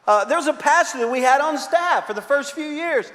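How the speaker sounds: usual speaking voice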